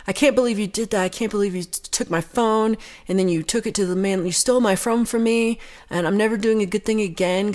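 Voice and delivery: high-pitched mock yell at the librarian; imitating her yelling. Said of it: "She starts yelling at him".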